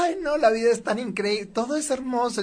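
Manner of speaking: lightly imitating an overjoyed gusher; mock gushing person. Mocking someone who claims life is always wonderful. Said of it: "alguien que todo el tiempo está".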